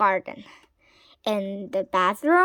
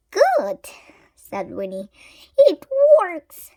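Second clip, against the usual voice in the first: high, louder delighted witch; high pleased witch; 6 semitones higher, 4 dB louder than usual. A narrator's reading. Winnie seeing Wilbur turn blue, delighted. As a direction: crow with delight.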